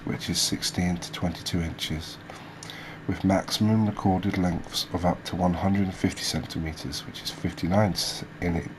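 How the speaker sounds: measured read-out of fish facts; reading aloud. Real, not acted. Host reading species facts to viewers, informative read-aloud. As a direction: read it out like a documentary script.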